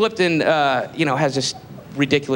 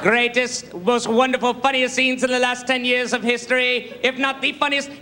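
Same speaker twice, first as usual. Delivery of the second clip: James Lipton impression; 5 semitones higher than usual. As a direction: savour every grand word of the speech. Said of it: "he's going".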